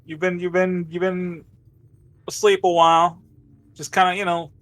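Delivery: calming medic. Acted. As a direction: try to settle panicked patients in a lifted voice. Game master plays Mike calming patients.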